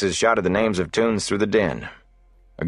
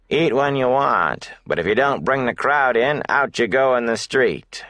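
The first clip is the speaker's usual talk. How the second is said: innkeeper Hake; 6 semitones higher than usual. A narrator's reading. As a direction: lay down the terms, a hint of menace.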